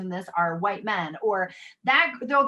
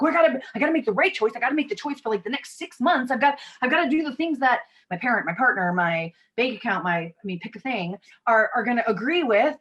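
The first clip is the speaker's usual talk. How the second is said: hurried anxious inner voice; 4 semitones higher, 4 dB louder than usual. Retold or imitated. Anxious inner voice about choices.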